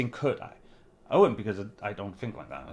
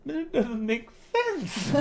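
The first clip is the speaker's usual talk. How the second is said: slow disbelief; 9 semitones higher, much slower than usual. Retold or imitated. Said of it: "the other part's going".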